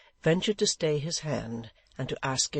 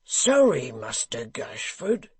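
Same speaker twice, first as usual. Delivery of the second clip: echoing Dennis; 6 dB louder, slower than usual. Acted. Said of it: "echoed Dennis".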